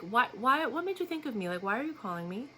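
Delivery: pointed, accusing question; blunt challenge. Shown as a demonstration. She questions the caller with a blunt challenge. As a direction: fire it at him like an accusation. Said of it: "Uh, not like that".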